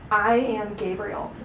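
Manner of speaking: slow, weighty self-introduction; slow and solemn angelic announcement. Shown as a demonstration. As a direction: announce yourself slowly, with gravity. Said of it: "Kind of like in that tone".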